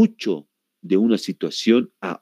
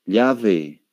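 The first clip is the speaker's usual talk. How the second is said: demonstrated accent of Spain; Spanish accent. Shown as a demonstration. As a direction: show how Spain says "llave", as "lyave". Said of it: "qué tal si voy a España".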